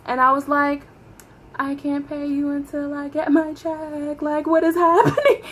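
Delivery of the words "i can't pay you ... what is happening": high, squeaky mock-crying plea; confused whine. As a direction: whine upward into a comic squeal. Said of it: "I was just so confused".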